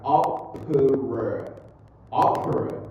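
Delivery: "Opera" drilled with a hard, puffed P; stressed P. Shown as a demonstration.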